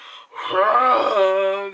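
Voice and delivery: long loud exhaled groan; mock whoosh of a drug hit; imitated rush of relief.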